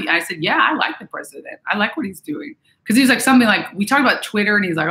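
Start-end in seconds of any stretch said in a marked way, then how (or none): 0.4-2.5 mildly gentle, retold reply; light, sincere, easy admission; gentle and truthful. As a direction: re-enact a kindly honest answer. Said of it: "I just said it in the gym today".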